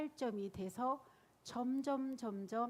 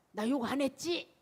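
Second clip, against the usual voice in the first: proud boast; 3 semitones higher, 7 dB louder than usual. Retold or imitated. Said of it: "막 그러면".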